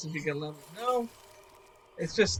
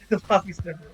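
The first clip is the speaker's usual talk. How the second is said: laughing echo; much faster than usual. Real, not acted. Echoing friend's line while laughing.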